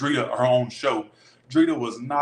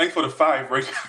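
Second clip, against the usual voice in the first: usual speaking voice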